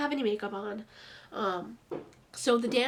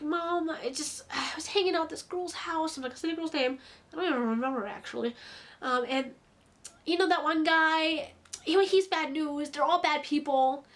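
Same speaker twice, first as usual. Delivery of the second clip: offhand, casual retelling; 4 semitones higher than usual. Retold or imitated. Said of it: "This is exactly how she was saying this".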